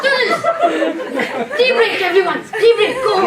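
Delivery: loud high call to class. Acted. Teacher calling class.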